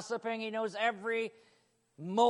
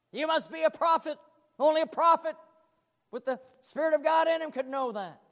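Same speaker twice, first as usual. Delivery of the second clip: higher, louder wonder; awed realization; 8 semitones higher, 6 dB louder than usual. Acted. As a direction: say it as a dawning revelation. Woman realises he's prophet.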